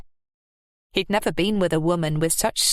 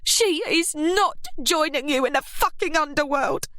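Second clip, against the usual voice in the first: shot back; 9 semitones higher than usual. A narrator's reading. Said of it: "Kath shot back".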